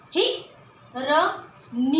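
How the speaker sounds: हिरनी drawn out very slowly with a rise; slow sounding out. Shown as a demonstration. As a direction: stretch हिरनी for the child. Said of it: "अंदर की आवाज". (हिरनी धीरे धीरे खींचकर)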